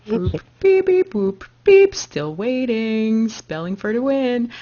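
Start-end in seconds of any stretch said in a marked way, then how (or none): 0.1-1.9 bouncy beep-boop robot noises; toy robot voice. Pretend. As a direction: play a toy robot waiting. Robot noises while waiting.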